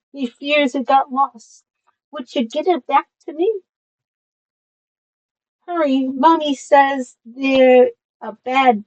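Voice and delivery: high, put-on tiny girl voice; little girl voice. Tiny girl begging for her lost doggy, high little voice. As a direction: lift it high like a little child babbling. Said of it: "I'm sorry for my little voice".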